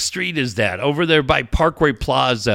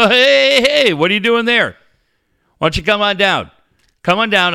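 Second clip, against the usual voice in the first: salesman calling out; 5 semitones higher, 3 dB louder than usual. Retold or imitated.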